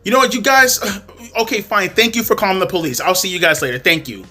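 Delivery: mock curt thanks and goodbye; retold dismissive. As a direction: dismiss them, imitating her huffy exit. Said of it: "Dismissing the fuck out of us".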